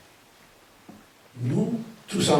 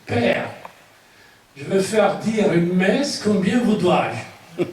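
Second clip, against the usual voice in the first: higher, slightly amused quoted request; parishioner asking the priest; 3 semitones higher, 4 dB louder, slower than usual. Retold or imitated. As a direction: ask the priest politely, a bit amused. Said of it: "une phrase ... qu'on prononce dans des sacristies".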